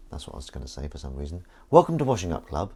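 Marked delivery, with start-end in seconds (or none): 1.7-2.7 show intro. Acted. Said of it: "A few false starts".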